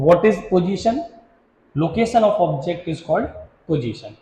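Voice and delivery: very slow, word by word, pause before the last word; slow dictation. Shown as a demonstration. Teacher dictating the definition to students, slow and spaced. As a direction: spell it out for notes, slowly.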